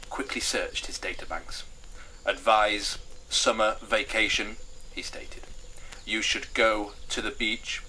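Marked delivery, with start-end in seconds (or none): 2.2-4.6 slow, measured machine voice; talking machine, word by word; computerised television set. Acted. Television set with databanks speaks. 6.0-7.8 slow, measured machine voice; talking machine, word by word; computerised television set. Acted. Television set gives its advice.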